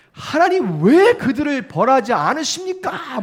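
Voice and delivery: loud, high, slow shout of protest to God; crying out. Retold or imitated. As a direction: cry out to heaven, stretching the "why". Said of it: "막 이렇게 소리를 질러요".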